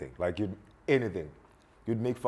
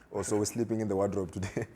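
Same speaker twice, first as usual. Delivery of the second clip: sarcastic dad. Retold or imitated. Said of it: "He's like".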